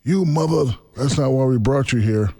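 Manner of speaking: indignant mock telling-off; imitating cursing out. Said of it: "the producer cursed me out".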